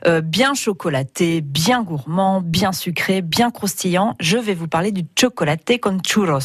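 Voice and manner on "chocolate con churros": Spanish pronunciation. Shown as a demonstration. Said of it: "ça se prononce vraiment chocolate con churros".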